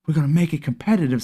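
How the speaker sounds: quick, breezy slogan read; quick quoted slogan. Retold or imitated. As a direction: rattle it off like a sales pitch. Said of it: "Sound good, didn't it?".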